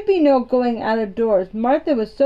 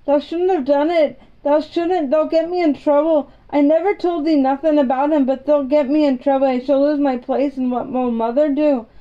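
fretful Yorkshire maid; 4 semitones higher, 3 dB louder, faster than usual. Acted. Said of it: "she said, half crying".

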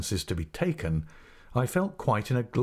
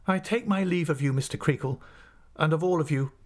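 higher-pitched, formal farewell; dignified assistant master; 8 semitones higher than usual. Acted. Assistant takes leave of master and boys, dignified. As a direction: take your leave with composed dignity.

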